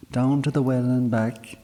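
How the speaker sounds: bossy mum sending her off; firm mother's instructions. A narrator's reading. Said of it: "she said".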